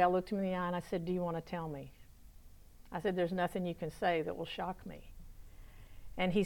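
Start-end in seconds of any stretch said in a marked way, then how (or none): 1.0-1.9 soft, lower, gentle question. Retold or imitated. Helper gently inviting a troubled young man to talk, very softly. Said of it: "I just said very softly". 3.2-5.1 softly steady reassurance. Retold or imitated. Helper reassuring a troubled young man, very softly. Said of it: "I just said very softly".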